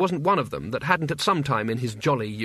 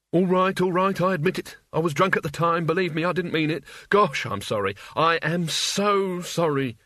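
a touch higher, pleading wizard apologising fast; grovelling wizard; 4 semitones higher than usual. Acted. Frightened wizard grovelling before the statue, mildly pleading. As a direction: beg forgiveness like a cornered coward.

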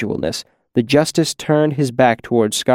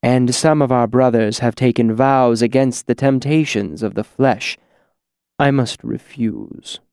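pious regret. Acted. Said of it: "voice dripped pious regret".

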